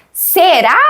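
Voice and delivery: SERÁ with questioning lift on the final syllable; question only at end. Retold or imitated. Daughter reading a question aloud, questioning only at the end of SERÁ. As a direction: imitate a child making SERÁ a question late. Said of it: "Só no fim, né".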